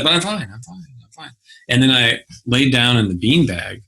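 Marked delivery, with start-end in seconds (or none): 0.0-1.3 put-on soothing baby. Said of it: "And I was like".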